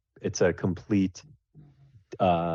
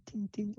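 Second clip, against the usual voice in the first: very faint, much higher tinging; faint ting sounds; 9 dB quieter than usual. Acted. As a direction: tap out tiny soft tings. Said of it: "very, very faint, like, little ting".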